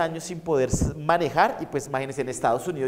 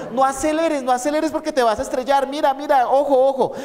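high, pleading, frightened cries; mock-frightened woman clutching the seat; panicked passenger; 7 semitones higher, 4 dB louder than usual. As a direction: beg the driver not to speed, voice pitched up in fear. Frightened woman begging driver slow.

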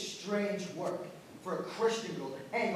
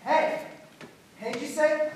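much higher, louder incredulous echo; shocked disbelief; 9 semitones higher, 9 dB louder than usual. Acted. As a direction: blurt it out in shock. Shocked at news of hanging.

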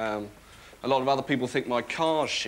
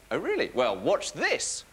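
sarcastic mock challenge; 3 semitones higher than usual. Mock reply to a paralysed man.

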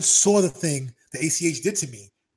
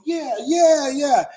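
mock crowd cheer; 10 semitones higher, 9 dB louder, much slower than usual. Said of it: "they go".

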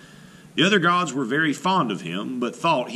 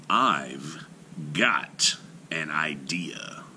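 whisper; 7 semitones lower, 5 dB quieter, much slower than usual. A narrator's reading. Heimdall confides plan.

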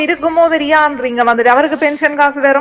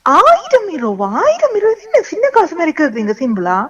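incredulous; 4 semitones higher than usual. Acted. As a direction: balk at the huge sum in disbelief. Wife balks at money request.

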